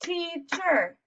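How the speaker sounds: "teacher" as two separated beats, TEA-CHER, first one high; syllable counting. Shown as a demonstration. Teacher clapping syllables for children, "teacher" broken in two. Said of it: "Two claps".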